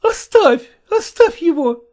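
a mother crying out to stop him; pleading mother. Acted. Mother pleading with her husband to leave the boy alone, high and tearful. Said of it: "остановила его Марья".

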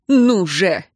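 impatient, husky urging; hoarse demand. A narrator's reading. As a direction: push it out hoarsely, insistently. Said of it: "потребовал император сипло". (сипло и требовательно)

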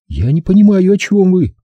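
high, guarded denial; high-pitched and guarded; wary captive woman. A narrator's reading. Captive woman denies understanding.

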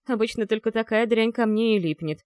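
plain reading voice

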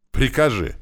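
high, loud, defiant shout; mother defying her son, shouting. A narrator's reading. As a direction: throw it in his face. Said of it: "крикнула женщина ему в лицо с явным вызовом".

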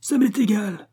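high-pitched angry yell. A narrator's reading. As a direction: yell it back defiantly, pitch up. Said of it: "hurla la huche".

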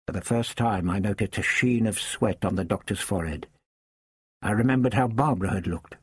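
ordinary delivery

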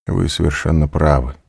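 usual speaking voice

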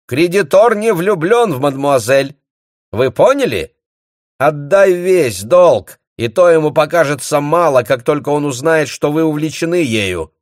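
high, loud lecturing voice; loud scolding. A narrator's reading. The bailiff loudly scolding the baron. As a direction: drive the point home.

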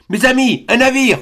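high, urgent hail to friends; rally them with the news; excited cry. A narrator's reading. Glenarvan telling his friends a ship is near, high excited cry. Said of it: "s'écria Glenarvan".

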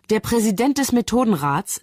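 reading out decree. A narrator's reading. Bell reads out the pardon, proclaiming it. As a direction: read it out as a formal announcement. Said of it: "liest Bell".

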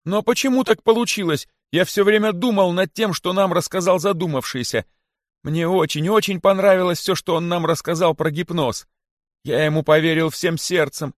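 very high, squeaky repentance; pleading cry. A narrator's reading. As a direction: plead earnestly in a high little voice. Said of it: "закричал находчивый". (покаянно, тонким голоском)

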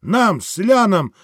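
rally the peasants with rising passion; soldier's speech to the crowd; fiery soldier orator. Acted. Wounded officer rallying the crowd.

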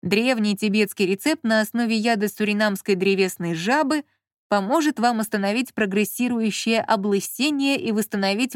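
measured advertisement read-out; expressive reading. A narrator's reading. Marquis reads a baldness ad aloud, with expression. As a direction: read the miracle cure with mild expression. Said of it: "начал читать с выражением".

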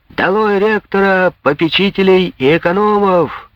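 high rallying shout; Jean yells to the students at the window, up high. Acted. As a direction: rouse the crowd with a high shout. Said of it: "крикнул Жан".

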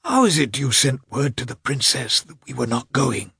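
high, strained irritable half-whisper; irritated, with the voice failing. Acted. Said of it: "in an irritable whisper, his voice failing him".

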